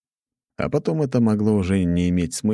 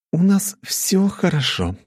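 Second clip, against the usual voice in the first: всё drawn out and pointed; stress on всё; 12 semitones higher, slower than usual. A narrator's reading. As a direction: lean hard on всё, slowly. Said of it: "особо выделив голосом второе слово".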